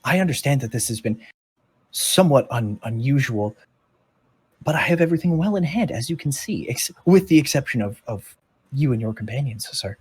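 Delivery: lightly played formal robot, hurrying in bursts; a hint of an in-character robot, earnestly explaining; lightly voiced robot official. Robot explaining itself to the intruding companions, lightly voiced role. Game master plays robot creature.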